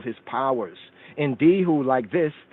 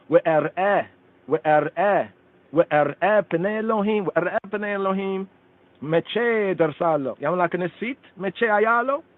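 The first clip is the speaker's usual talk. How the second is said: raised, yearning chant of the verse; fervent recitation; 5 semitones higher than usual. Acted. Teacher intoning the psalm to the class, fervent and raised. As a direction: lift the words up like a longing prayer.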